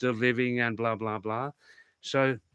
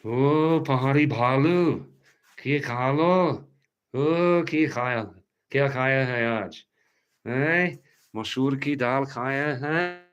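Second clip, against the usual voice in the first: calling to the dog; 5 dB louder than usual. Real, not acted. Talking to the dog Pahari Bhalu.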